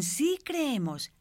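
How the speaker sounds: slow, stretched affirmation from a crowd; mild crowd cry. Retold or imitated. Onlookers answer the man on the rope, mild drawn-out cry. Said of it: "Todos gritaban".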